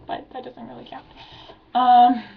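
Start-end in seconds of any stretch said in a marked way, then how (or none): 0.1-1.1 breathy whisper, tossed off under her breath; a whispered afterthought, much softer; whispered aside. Real, not acted. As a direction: mutter it to yourself, dismissing it.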